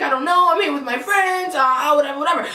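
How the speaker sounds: mildly panicked retelling; retold freak-out. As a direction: imitate a flustered friend freaking out. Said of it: "freaking out".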